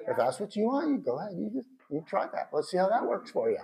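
lightly mocking, falsely agreeable permission; sarcastic go-ahead. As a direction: let them go ahead while clearly doubting it. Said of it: "Can you see the sarcasm there".

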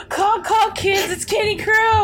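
high, loud cheery mascot shout; mascot call. Retold or imitated. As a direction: belt it like a kids' bird mascot. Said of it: "and he just goes".

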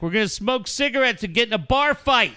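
high-pitched yell from the back; mock kid's yell. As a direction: call it out high like a kid, without full volume. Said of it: "He just yells from the back".

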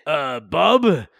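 Thing voice. Pretend. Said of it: "This is my Thing voice".

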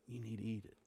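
very soft, hushed instruction; retold whisper. Host quietly correcting his guest at the table, whispered. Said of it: "he just whispered".

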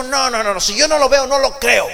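doubting Thomas. Acted. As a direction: Thomas flatly refusing to believe. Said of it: "pero Tomás dijo".

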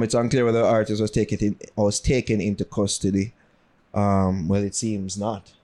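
low-pitched news reading. Real, not acted. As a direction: read it out evenly and low. Continues the news report.

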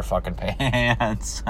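breaking into laughter on the last word; real laughing. Real, not acted. Ranting driver tickled by old people shitting their pants, laughing. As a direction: crack up at your own joke. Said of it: "shitting their pants sounds so funny".

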